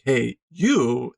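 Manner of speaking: "you" leaned on with a pitch jump; stress on YOU. Acted. Reader translating the emphasis on Ikari, stress on "you". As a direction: punch "you" as the one addressed. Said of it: "emphasis on Ikari".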